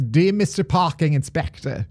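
put-on tentative first stab at an Australian accent; warming up a shaky-aim Australian accent; attempted Australian accent. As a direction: read the note in a half-formed Aussie accent. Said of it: "that's probably the best my Australian accent".

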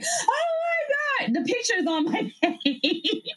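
high, choked-up oh my god; tearful, high, overcome; tears of joy. Retold or imitated. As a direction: relive crying happy tears. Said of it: "I just started like".

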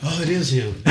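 lightly voiced dawning realization; mock amazed recognition. Customers recognize the TV host, mock amazed.

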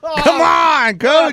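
squeaky high teasing voice; mock high whine.

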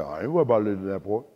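low, fast, mumbled imitation of Mister Williams; imitating her father. Preacher mimics Mister Williams to the crowd, fast and low. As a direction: rattle it off low like the coach dad. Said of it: "That's how he talks".

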